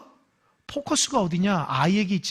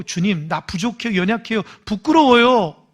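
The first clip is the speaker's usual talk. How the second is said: humble prayer; 3 dB louder than usual. Shown as a demonstration. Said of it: "솔직한 게 맞는".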